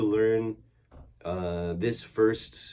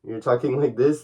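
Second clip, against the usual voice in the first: muted voice; 5 dB louder than usual. Shown as a demonstration. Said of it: "the voice is more muted".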